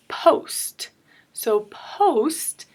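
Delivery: "post" loud and set apart, with long O. Shown as a demonstration. Teacher showing a word ending, loud "post" with long O. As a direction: hit "post" firmly, letting the O say its name. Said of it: "that long O sound".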